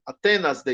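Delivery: Atenasde said with s then d, a-te-nas-de; sigma-delta pronunciation. Shown as a demonstration. Teacher explaining one school's Greek reading. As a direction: separate the s and d in Atenasde. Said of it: "a pronúncia deve ser Atenasde".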